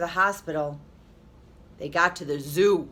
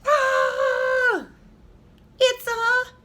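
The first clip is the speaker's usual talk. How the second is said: high, loud cry cut short; father slapped by a flipper, shouting; yelled; 4 dB louder, much slower than usual. A narrator's reading. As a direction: shout in shock then stop. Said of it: "He yelled".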